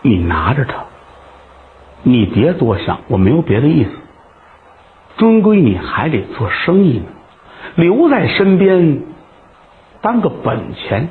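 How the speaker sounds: put-on tender low girl's voice; gentle courtesan. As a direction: hush it, coax him kindly.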